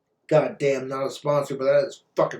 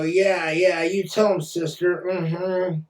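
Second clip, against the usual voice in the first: mock cheering women; 2 semitones higher, slower than usual. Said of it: "women lose their shit and go".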